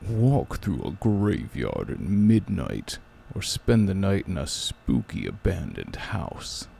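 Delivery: slow, lightly spooky reading. Acted. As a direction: drag the words out eerily. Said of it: "the spooky voice".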